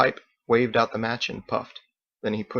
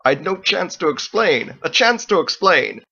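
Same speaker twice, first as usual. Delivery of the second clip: snickering; 7 semitones higher, 6 dB louder than usual. A narrator's reading. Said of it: "Captain snickered".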